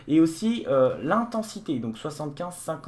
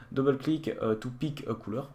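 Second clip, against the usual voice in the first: halting English in a French accent. Real, not acted. Reviewer reading the on-screen instruction, French-accented English. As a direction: read the English with French sounds. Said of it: "accent anglais magnifique".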